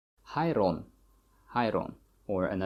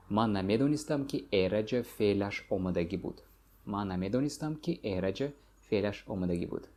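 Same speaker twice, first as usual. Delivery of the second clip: northern dialect; much faster than usual. Shown as a demonstration. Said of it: "Northern dialect".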